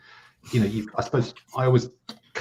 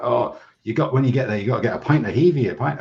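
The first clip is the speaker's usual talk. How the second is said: a bit higher, mock Scottish boss raving about Heavey; imitating boss's Scottish accent; 4 semitones higher, 4 dB louder than usual. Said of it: "crap Scottish accent".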